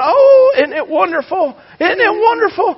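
very high, gushing isn't it wonderful; delighted cooing. Retold or imitated. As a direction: coo with delight over the crawling baby. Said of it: "Anna's going".

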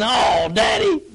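put-on drawn-out shouted "Oh, Daddy" in a sulky child's voice; mock whining child. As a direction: whine "Daddy" like a kid dodging a chore. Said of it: "Instead of saying".

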